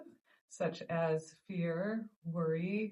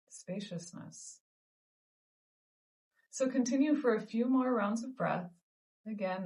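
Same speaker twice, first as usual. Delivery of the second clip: measured meditation guidance with long pauses; guided meditation. Acted. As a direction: guide listeners gently through each breath, leaving space between phrases. Leads a breathing meditation.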